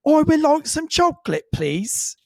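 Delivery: put-on high little boy's voice asking politely; imitating shy son. Father imitates eight-year-old son asking for chocolate, high and polite. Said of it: "And he's like".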